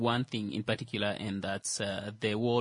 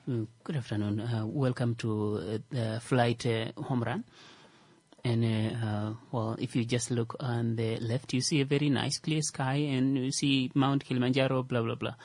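airline pilot announcement. Pretend. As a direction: welcome passengers aboard like a pilot. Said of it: "like a pilot".

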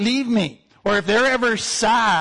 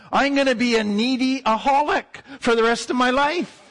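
mock gleeful; 4 semitones higher than usual. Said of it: "And you go".

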